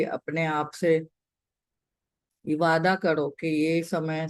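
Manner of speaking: calm meditation guide, pausing between instructions; guided meditation. Real, not acted. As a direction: gently guide them to settle in, leaving long pauses. (शांत, ठहराव के साथ ध्यान का निर्देश)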